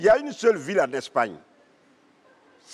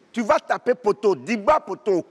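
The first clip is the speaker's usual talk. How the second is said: higher, louder football taunt; 5 semitones higher, 4 dB louder than usual. Acted. Taunting the Madrid fan, shouted. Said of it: "repeated taunt".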